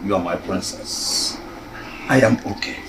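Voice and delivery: reassuring. Acted. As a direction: soothe her gently. King soothes daughter softly.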